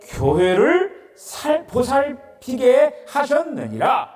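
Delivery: slow, solemn Bible reading; scripture reading. Acted. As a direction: read the verse reverently and slowly. Reads scripture aloud.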